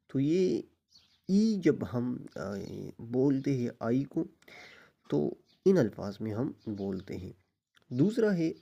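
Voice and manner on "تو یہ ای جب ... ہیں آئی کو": ordinary talk, nothing marked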